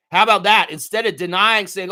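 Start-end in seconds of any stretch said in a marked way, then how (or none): 0.1-0.7 emphatic. Real, not acted.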